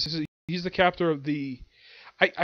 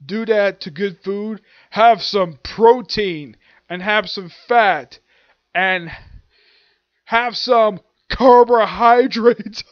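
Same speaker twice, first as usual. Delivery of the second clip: slow, punchy mock anger, building louder; ticked off; 2 semitones higher, 6 dB louder, slower than usual. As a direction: hammer out each food, louder at the end. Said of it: "is ticked off".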